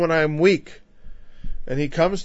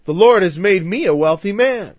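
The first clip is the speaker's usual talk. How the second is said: put-on lightly done Southern preacher accent, louder; 4 semitones higher, 5 dB louder than usual. Preacher mocking a wealthy Southern minister, light Southern accent. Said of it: "I don't do a very good".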